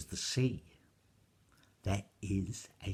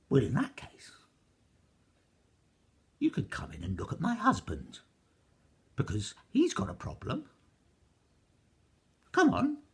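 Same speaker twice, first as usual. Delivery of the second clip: rising higher to a loud come on; the giantess waving them inside; inviting giantess; 11 semitones higher, 5 dB louder than usual. A narrator's reading.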